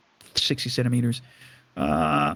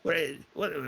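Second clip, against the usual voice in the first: manager yelling; 9 semitones higher, slower than usual. Acted. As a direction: bellow at the unruly drunks. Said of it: "he starts yelling and screaming".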